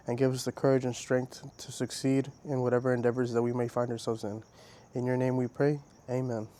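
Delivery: calm, earnest spoken prayer. Real, not acted. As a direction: pray sincerely and steadily. Leads a closing prayer.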